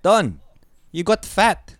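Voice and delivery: high, loud mock auntie; imitating blunt auntie. Auntie greeting Don, high and bluntly insulting in imitation. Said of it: "So my auntie will be like".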